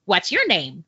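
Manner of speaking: lightly imitated robot voice; weird robot voice. Storyteller mimics a kid questioning her through the stall, weird robot voice. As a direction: put on a kid's playful robot voice. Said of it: "in this weird robot voice".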